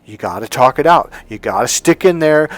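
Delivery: a hint of a preachy counselor urging clients on; insistent therapist advice. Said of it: "he had taught all of his clients".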